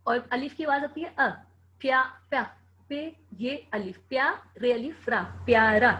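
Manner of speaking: put-on teacher breaking a word into its sounds for kids; sounding out letters. Shown as a demonstration. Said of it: "आप उसकी आवाज़ ज़रूर देखा करें कैसे निकल रही है".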